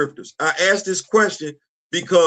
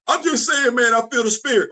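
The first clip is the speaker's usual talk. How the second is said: higher voice, playing the other side of the chat; sheepish other voice; 6 semitones higher than usual. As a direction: raise the pitch, sound a little defensive. Imagined reply in dialogue.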